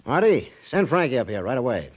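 calls sharply across the room; calling out. Acted. Casino owner calls to his man, loud. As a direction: bark the order out to Marty.

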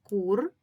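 "кур" alone, loud and separate; isolated syllable. Shown as a demonstration. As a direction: sound out "кур" as one firm beat. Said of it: "Перший склад".

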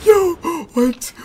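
very high loud cackle; shriek-laugh in disbelief; hysterical shrieking laugh. Real, not acted. Won fight, hysterical.

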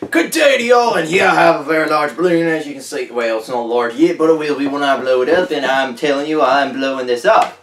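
lightly hammed-up country reporter opening big; on-the-road reporter. Reporter greets viewers before blowing up a balloon, folksy put-on voice.

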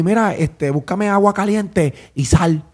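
slow instruction. Retold or imitated. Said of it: "llamó un asistente allí".

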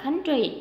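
COUNTRY with its first syllable stressed. Shown as a demonstration. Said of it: "âm thứ nhất".

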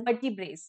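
"vertebrae" said carefully as a pronunciation model; plural pronunciation. Shown as a demonstration. Teacher showing students the plural, pronunciation demo of "vertebrae". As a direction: show how to pronounce "vertebrae". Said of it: "we pronounce it as".

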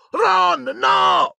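high-pitched urgent warning cry; alarmed shout. A narrator's reading. Harry warns Ron off the brain, shouting. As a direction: yell to stop him at once.

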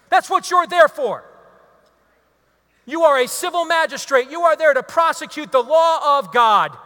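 scolding sermon shout; preaching rebuke. Acted. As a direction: thunder it at him from the pulpit. Rebuking the politician.

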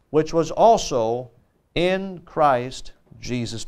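measured, solemn Bible reading; scripture reading. Acted. Preacher reading the passage to the congregation, measured scripture reading. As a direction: read the verses out deliberately, phrase by phrase.

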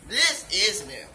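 hiccup breaking the words. Real, not acted. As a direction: hiccups mid-sentence. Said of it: "I got the hiccups".

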